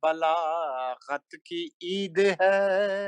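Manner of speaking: slow melodic chanted Urdu verse; stately nazm recitation. Acted. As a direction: intone each line like a mushaira poet. Recites a manqabat at a gathering.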